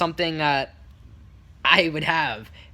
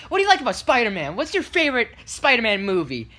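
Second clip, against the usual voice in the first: put-on higher, lively question to children; hero greeting kids; 7 semitones higher, 3 dB louder than usual. Costumed Spider-Man quizzing little kids, lightly performed. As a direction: ask it brightly in character for little fans.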